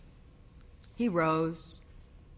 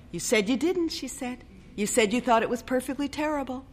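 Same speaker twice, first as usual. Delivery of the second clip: accusing bride; 7 semitones higher, faster than usual. A narrator's reading.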